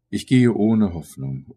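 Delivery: loud, slow outburst; anguished declamation. A narrator's reading. Narrator lamenting his own aimlessness, anguished declamation. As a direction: declaim it slowly and forcefully.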